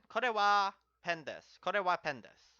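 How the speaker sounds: "Kore wa pen desu" with kore stressed, falling; model sentence. Shown as a demonstration. Teacher models the full Japanese sentence, stressing kore. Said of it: "This is a pen".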